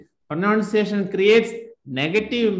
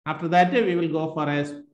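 usual speaking voice

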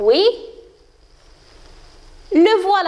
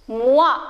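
"Moi" sounded alone as a syllable; isolated syllable; 3 dB louder than usual. Shown as a demonstration. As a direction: detach "Moi" between pauses. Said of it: "Et la deuxième?". (« moi », syllabe bien détachée)

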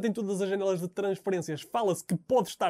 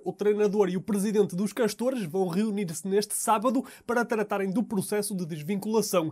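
measured, projected sports bulletin delivery; news read; 4 dB louder than usual. Acted. Anchor reporting transfer news to viewers, news read.

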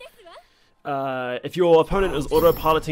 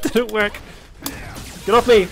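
exasperated shout; 5 semitones higher than usual. Real, not acted. Player being pressured by an opponent in the match, exasperated shout. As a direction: shout to shake off an attacker. Calling out under attack in game.

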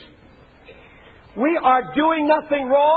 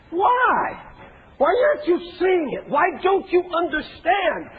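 exasperated Jesus; 2 semitones higher than usual. Retold or imitated. Jesus rebuking the so-called believers, exasperated and shouting. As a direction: plead and then shout as a frustrated teacher. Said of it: "this exasperation that Jesus seems to have here".

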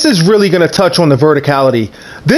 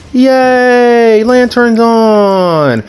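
excited; 5 semitones higher, much slower than usual. Real, not acted. Cheery announcement of the lantern.

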